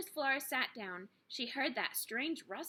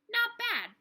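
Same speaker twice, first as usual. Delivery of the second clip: pleased surprise; 13 semitones higher, 8 dB louder than usual. A narrator's reading. Flora sniffs the food bowl.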